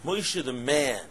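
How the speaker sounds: "man" drawn out with a falling tune; emphatic, falling "man"; stress on MAN. Shown as a demonstration. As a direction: lean on "man" in "Moshe the man". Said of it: "the emphasis on the pasuk".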